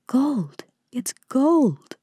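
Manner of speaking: exclaiming. A narrator's reading. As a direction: exclaim at a sudden find of treasure.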